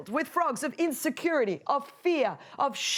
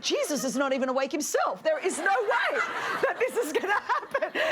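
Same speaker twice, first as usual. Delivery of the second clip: laughing excuse. Retold or imitated. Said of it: "And we think".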